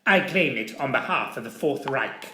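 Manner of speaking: lightly voiced arrogant Nazi officer. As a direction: claim it with cold pride. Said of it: "snapped the Obergruppenführer".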